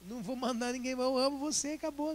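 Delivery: soft, light reassurance with a laugh; calm the friend down gently; quiet friendly comfort; reassuring. Retold or imitated.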